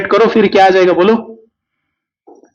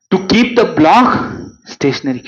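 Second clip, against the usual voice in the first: slow dictation reading; 2 semitones higher, much slower than usual. Acted. Reading question aloud slowly.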